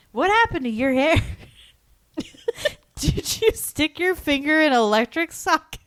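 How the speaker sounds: put-on high-pitched taunting kid voice; put-on high kid jeer; mocking schoolboy. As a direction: imitate a bratty classmate, high and teasing. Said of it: "And this kid, Bobby Hurst, was like".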